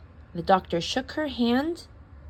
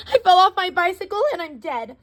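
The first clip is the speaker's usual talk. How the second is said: dramatic; 10 semitones higher, 5 dB louder than usual. A narrator's reading. Dramatic complaint.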